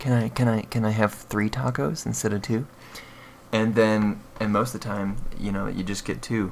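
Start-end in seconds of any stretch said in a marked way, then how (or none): 0.0-2.7 shy, timid, quiet, coy little voice. Retelling asking for three tacos at the school cafe: imitating a quiet, coy request. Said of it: "and I quietly ask".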